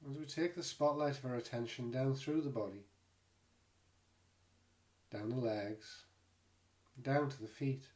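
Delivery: calm, unhurried meditation guide with long pauses; guided meditation. Real, not acted. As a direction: gently guide listeners into the body, leaving space between phrases. Leads a body scan meditation.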